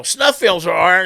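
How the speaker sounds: provocative jab. Retold or imitated. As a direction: bait him on purpose, slowly. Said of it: "and I was like".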